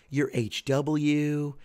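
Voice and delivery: drawn-out wife. Retold or imitated. Wife's exasperated line.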